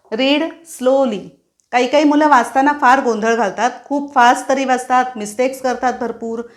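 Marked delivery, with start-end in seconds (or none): 0.1-1.3 slow teacher command. Shown as a demonstration. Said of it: "teachers मुलांना usually सांगतात".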